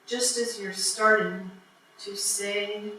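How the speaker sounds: measured recital with long pauses between phrases; poetry reading. Acted. Poet reading a piece written for the show, measured poetry reading. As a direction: deliver each phrase, then let it hang.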